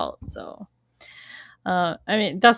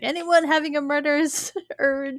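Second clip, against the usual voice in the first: higher, mock announcement through a laugh; playful retold call, pitched up; imitated calling out; 5 semitones higher than usual. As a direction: ask round like a hammy searcher. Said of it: "He's like".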